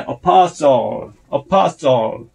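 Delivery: apostle with its L sounded at the end; clear final L. Shown as a demonstration. Teacher explaining the L, clear final L in apostle. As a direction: finish apostle on a held L. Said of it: "L 발음이 있으니까".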